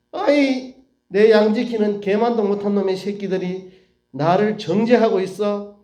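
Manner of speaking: mildly acted outrage at being condemned; angry Job. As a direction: voice an affronted man cursing his accusers. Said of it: "욥이 얼마나 화가 났으면".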